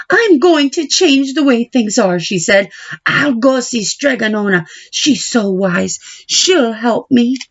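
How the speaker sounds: a hint of a girl making up her mind; determined young Babylona. Babylona decides to leave.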